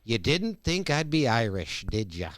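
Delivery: lightly attempted bad Irish accent; a hint of hammy Irish. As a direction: imitate a poor Irish accent, only lightly.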